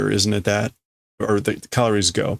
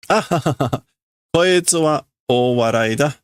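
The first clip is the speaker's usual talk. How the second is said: put-on laughing girl; 3 semitones higher, slower than usual. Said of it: "Laughs and says".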